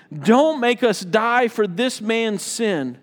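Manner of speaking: slow, emphatic plea to God; earnest, drawn-out appeal in prayer; pleading. Acted. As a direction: plead your case before the Lord. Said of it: "they pleaded".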